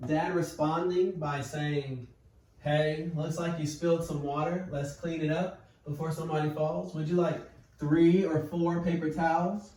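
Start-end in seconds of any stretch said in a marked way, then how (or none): 2.6-9.7 steady, calm helpful dad; unhurried, helpful parent tone. Shown as a demonstration. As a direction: sound like you're here to help. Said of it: "See how calm that is?".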